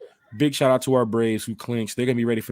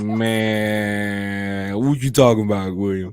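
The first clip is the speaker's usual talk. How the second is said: offended player; 5 semitones lower, much slower than usual. Retold or imitated. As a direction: lower offended voice. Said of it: "imagine Richie Grant be like".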